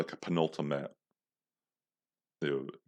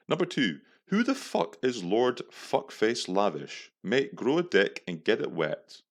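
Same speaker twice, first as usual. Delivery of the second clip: declaiming an angry text, pitched up; mock-indignant reading; 4 semitones higher than usual. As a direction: read your insulting reply out theatrically. Reads out his insulting reply.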